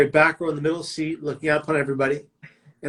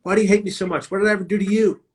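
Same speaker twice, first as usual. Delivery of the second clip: re-enacted pleading yell, loud burst at first, pitched higher; retold yelling; 4 semitones higher, 4 dB louder than usual. Young man retelling his outburst at the voices in his head, retold yelling. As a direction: plead back at tormenting voices, raised but not full yell. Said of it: "I began to yell aloud at the voices in my head".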